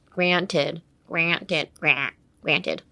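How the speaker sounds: GRANTED with the "gra" made in the throat like a cat; cat-like throat sound. Shown as a demonstration. Teacher showing how to say GRANTED, throaty cat-like "gra". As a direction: say GRANTED from a duck-call throat position. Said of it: "That's how your throat should be".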